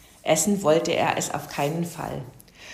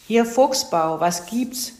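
a touch grumpy, higher and louder phone greeting; brummig; 5 semitones higher, 4 dB louder, slower than usual. A narrator's reading. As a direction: answer the phone a little grumpily. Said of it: "fragte er brummig". (leicht brummig)

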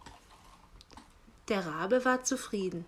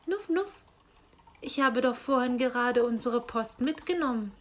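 sniffing hedgehog; 3 semitones higher, 3 dB louder than usual. Acted. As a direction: sniff then chatter like a hedgehog.

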